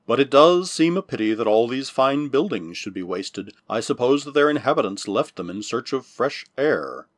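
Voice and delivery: lightly gruff grumble; a hint of a gruff man. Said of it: "his gruff voice echoing strangely".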